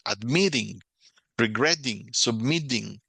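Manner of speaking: ADMITTING, REGRETTING, SUBMITTING punched on MIT, GRET, MIT; final-stem stress. Shown as a demonstration. Teacher showing students end-accented verbs, stem's last syllable stressed. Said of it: "llevan el acento al final".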